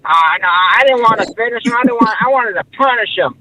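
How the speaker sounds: put-on lightly done English accent, a bit quick; a hint of an English accent; mock English accent. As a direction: parrot the English boxer in a half-hearted English accent. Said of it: "Do the accent again".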